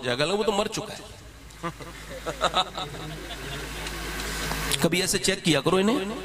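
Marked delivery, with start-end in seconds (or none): 2.1-4.8 quiet amused chuckle; a hushed incredulous laugh; soft laugh. Real, not acted. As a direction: laugh softly at the absurd answer. Laughs at the fraud's answer.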